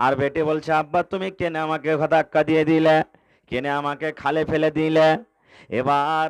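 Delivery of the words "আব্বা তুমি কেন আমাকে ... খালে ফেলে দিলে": normal talking voice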